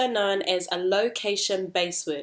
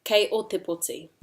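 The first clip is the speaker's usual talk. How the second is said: KEI leading, falling away through POTI; expression intonation. Shown as a demonstration. Teacher repeats sequence in te reo, expression led by KEI. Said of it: "So we have expression".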